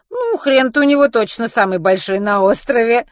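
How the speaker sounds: high, loud, mischievous crack; giggly, bawdy quip. Acted. Kitty jokes crudely about Len, loud and giggly. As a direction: toss out the dirty joke gleefully. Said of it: "хихикнула Китти".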